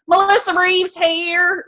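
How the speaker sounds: high, slow, hammed-up Southern drawl of an actress; mock the actress trying way too hard at Southern; overdone Southern accent. Mocking the actress's Southern line, high and slow hammed-up accent. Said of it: "she, like, overdoes it".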